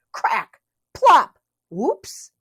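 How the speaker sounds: playful splash sound; sound effect word. A narrator's reading. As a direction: pop it out as a splash.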